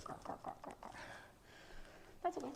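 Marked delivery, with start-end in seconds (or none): 0.0-0.9 creaky joint growl. Retold or imitated. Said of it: "All my joints are like".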